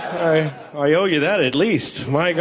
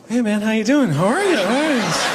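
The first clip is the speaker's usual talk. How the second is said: friendly to crazy; 4 semitones higher than usual. Retold or imitated. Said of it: "they go".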